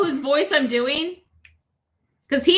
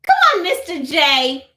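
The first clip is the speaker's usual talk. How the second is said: Harley Quinn; 4 semitones higher than usual. Pretend. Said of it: "Harley Quinn!".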